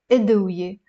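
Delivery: أدوية with an opening i, "idwiye"; 开头读 i. Shown as a demonstration. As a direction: start أدوية on a clear "id". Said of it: "I will put a kasra here".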